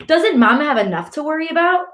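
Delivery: high, rising exasperated questions; demanding. A narrator's reading. Brother asking Ali about worrying Mama, demanding. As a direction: scold with indignant questions. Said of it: "my brother demands".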